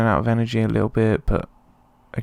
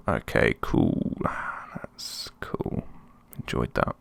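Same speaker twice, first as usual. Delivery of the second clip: sarcastic; 9 semitones lower, 7 dB quieter, slower than usual. Real, not acted. Keeper just fell over.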